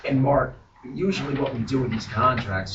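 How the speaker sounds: hoarse, worn-out voice; lost voice. Real, not acted. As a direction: push words through a lost voice. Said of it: "excuse my, my voice, I lost it".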